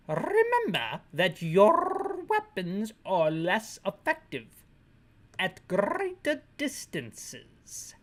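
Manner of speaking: slow mock British, rolled R's; stretched fake British with trilled R's; failed British accent. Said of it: "this guy isn't British anymore".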